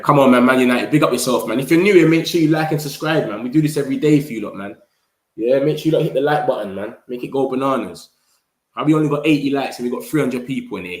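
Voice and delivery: loud, pumped-up plea to the chat; rally the viewers, loud and hyped; hyped call-out. Real, not acted. Streamer hyping his chat to hit like, loud and pumped.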